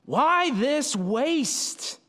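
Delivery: high, slow, drawn-out indignant question; high and slow, with mock outrage. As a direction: stretch it out as the offended disciples. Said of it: "they were indignant".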